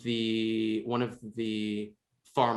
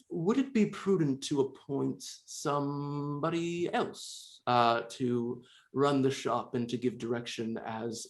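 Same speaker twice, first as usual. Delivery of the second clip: put-on very old faint voice; 2 semitones higher than usual. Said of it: "an older Tabaxi woman".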